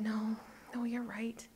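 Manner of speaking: hushed, defeated whisper; resigned whisper. A narrator's reading. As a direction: give in quietly. Boy gives in after sigh.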